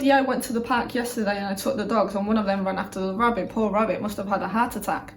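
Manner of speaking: chatting really fast, as to mum; rapid chatter. Retold or imitated. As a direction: rattle it off in a rush. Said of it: "I speak really, really fast".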